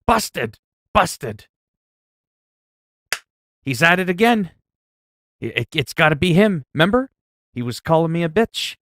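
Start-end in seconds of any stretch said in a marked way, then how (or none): none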